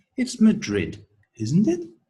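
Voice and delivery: fall-rise tone: voice dips then lifts on isn't it. Intonation lesson with a tag question: fall-rise tone on isn't it. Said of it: "That's the fall rise".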